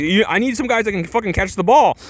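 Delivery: high-pitched mock tirade; strained, high-pitched exasperated outburst; freaking out. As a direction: imitate a coach losing it. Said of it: "he's freaking the fuck out".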